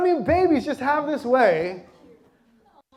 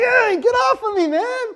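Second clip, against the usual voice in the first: higher, louder mock yell of irritation; retold yelp, get off me; annoyed yell; 9 semitones higher, 5 dB louder than usual. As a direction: snap at the girls in the back seat. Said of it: "And I'm like".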